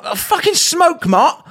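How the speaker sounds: high, slow disbelief; stunned mock question; can't believe she asked; incredulous. Incredulous reply.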